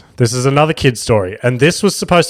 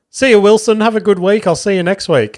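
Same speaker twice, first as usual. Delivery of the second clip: chirpy teacher voice pitched much higher and a bit louder; imitating the swim teacher; 9 semitones higher, 3 dB louder than usual. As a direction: mimic the swim teacher's cheery goodbye, high and bright. Teacher saying goodbye at pool.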